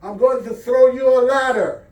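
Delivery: loud, high call to a stranded neighbor; pilot calling out from above. Acted. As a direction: call down over the rotor noise. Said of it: "the pilot of the helicopter called out".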